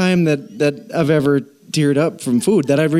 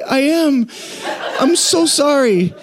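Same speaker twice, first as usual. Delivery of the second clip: high-pitched, put-on weepy confession; mock tearful apology; 10 semitones higher than usual. Husband admitting to wife he is crying, mock tearful apology. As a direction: apologise as if choking up over food. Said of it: "Are you crying?".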